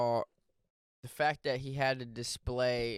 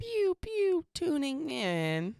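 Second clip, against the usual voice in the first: high pew-pew then slow radio drop; cheesy radio intro voice; radio tag; 11 semitones higher, much slower than usual. Pretend. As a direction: play it like a station jingle.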